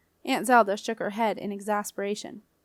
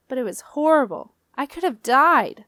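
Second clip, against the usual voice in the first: whiny protest; 4 semitones higher, 8 dB louder than usual. A narrator's reading. Boy's defensive protest.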